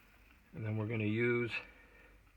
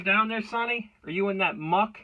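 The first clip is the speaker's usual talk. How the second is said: raised call, pitched up; calling from far away; 8 semitones higher, 5 dB louder than usual. Real, not acted. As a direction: call out to someone downstairs. Calling down to Sonny below.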